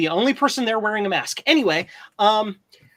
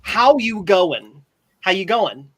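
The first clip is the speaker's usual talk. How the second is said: Australian greeting; 5 dB louder, slower than usual. Retold or imitated. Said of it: "greeted me with the typical Australian".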